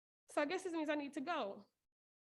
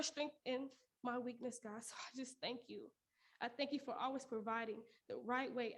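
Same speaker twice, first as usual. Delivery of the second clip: prayer. Real, not acted. Prays aloud alone in car.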